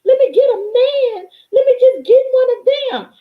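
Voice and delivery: high, crying, pleading wail to the Lord; hammed-up begging woman, voice breaking high; mock desperate prayer. Mocking women who beg God for a husband, whiny crying plea. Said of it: "You wanna sit up here and be like".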